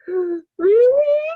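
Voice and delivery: high, loud mock-sobbing question; hammed-up tearful voice; imitated crying. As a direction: ask it like a bawling kid. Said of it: "and he's crying".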